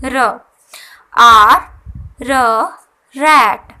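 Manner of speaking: letter and sound called out loudly; loud sound demo. Shown as a demonstration. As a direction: call out आर, र, रैट loudly for the class. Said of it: "आर से जो sound बन रहा है".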